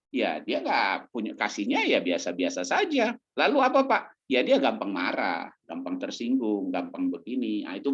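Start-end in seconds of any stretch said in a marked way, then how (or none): 3.4-4.0 congregant's question. Acted.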